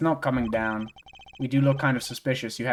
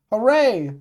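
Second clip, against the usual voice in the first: high, bright-pitched hooray; cheer; 8 semitones higher, 4 dB louder than usual. Real, not acted. Cheers on reaching next part.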